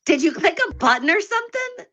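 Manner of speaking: squeaky high-pitched voice; helium voice. Real, not acted. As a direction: sound like you've inhaled helium. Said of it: "Why are you talking like that?".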